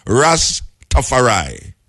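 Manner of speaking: Ras Tafari said slowly as two separate words; split into two words. Shown as a demonstration. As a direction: pause between Ras and Tafari. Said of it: "Ras is one word".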